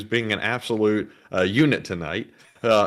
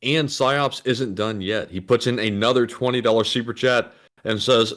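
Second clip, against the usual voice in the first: ordinary delivery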